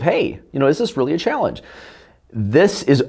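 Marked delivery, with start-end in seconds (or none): 0.0-1.6 right curious tonality. Shown as a demonstration. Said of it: "this right kind of tonality".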